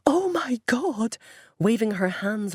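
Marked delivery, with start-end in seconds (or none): 0.1-1.2 slow whispered mouthing; mouthed. A narrator's reading. Debbie miming panic for the police, slow mouthed whisper. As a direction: barely voice it, slow and breathy.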